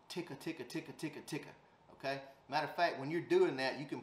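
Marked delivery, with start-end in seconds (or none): 0.1-1.5 ticka, ticka said softly, the final C cut off short; clipped ticka. Shown as a demonstration. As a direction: whisper ticka with a sharp stop at the end. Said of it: "the C on the end cuts it off".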